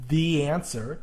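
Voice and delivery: "the answer", with "the" rhyming with see; long E in "the" before "answer"; THE as thee. Shown as a demonstration. Teacher working the exercise, "the" as thee. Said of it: "because that's a vowel".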